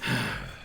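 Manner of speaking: soft in-character sigh; small sigh before speaking; acted sigh. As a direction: let out a quiet, resigned sigh. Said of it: "he just kinda sighs and goes".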